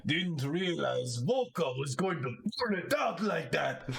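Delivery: high, laughing banter; jovial fan. Acted. A shifter joking about his lost money, high and laughing. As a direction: laugh it off heartily.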